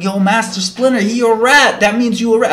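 imitated high, loud accusation; mock an outraged inmate calling someone out; riled up. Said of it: "starting to get, like, riled up".

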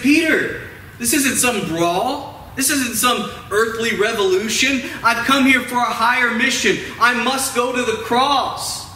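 mildly acted stern correction; imagined rebuke. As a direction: call out the name high, then firmly correct him. Imagines Jesus rebuking Peter.

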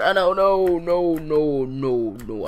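loud, rising panic; frantic pleading with the game; panicked no's. Real, not acted. Mobs attack in game.

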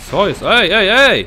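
loud, high startled shout; shouting at an enemy landing on him; alarmed shout. Real, not acted. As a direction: yell it as they jump you. Enemies jump on him.

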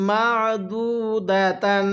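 drawn-out chanted recitation; slow melodic Quranic chant. Shown as a demonstration. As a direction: recite it like a tajweed teacher. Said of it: "কিভাবে পড়ব?".

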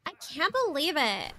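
lilting mock valley girl; put-on valley girl disbelief; valley girl accent. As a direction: swoop the pitch like a valley girl. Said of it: "Valley girl accent?".

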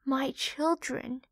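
a soft, slow, tired mother's call; weary old mother. Acted. Old mother pig calling her piglets, soft and tired. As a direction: speak as if your strength is fading.

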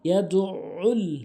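ইয়াদুল with the ain pressed hard. Shown as a demonstration. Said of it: "আইন চাপ দিয়ে উচ্চারণ করবেন". (আইন চাপ দিয়ে ইয়াদুল)

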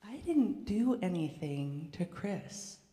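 slow, calm reply to mom; child answering mom calmly instead of yelling. Pretend. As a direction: say it calmly and slowly. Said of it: "if I had calmly said to my mother".

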